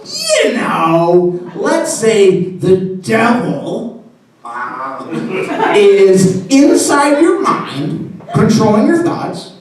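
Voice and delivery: high, very slow and halting; hesitant question. Retold or imitated. Parishioner explaining himself to a priest, awkward and drawn-out. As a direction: tiptoe through the hypothetical, pitched high.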